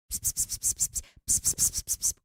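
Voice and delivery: unvoiced psst calls; whispered psst. Streamer trying to lure a lurker out, whispered psst. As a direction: hiss for a hidden friend's attention. Calling a lurking chatter.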